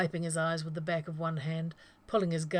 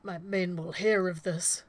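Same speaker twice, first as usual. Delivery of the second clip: slow, pained words forced through teeth; through gritted teeth; 4 dB louder than usual. Acted. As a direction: push it out through clenched teeth. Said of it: "Collier managed from between gritted teeth".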